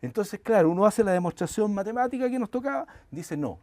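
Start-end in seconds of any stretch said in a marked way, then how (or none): 3.4-3.6 higher and louder, insistent quoted professor; emphatic quoted professor. Retold or imitated. Professor correcting the students' proof, in a higher, louder, insistent voice. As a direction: lift the voice to play the professor's point.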